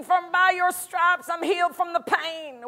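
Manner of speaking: an anxious, pleading prayer still focused on the problem; mock anxious prayer. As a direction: imitate a worried believer dwelling on the pain. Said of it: "someone comes and says".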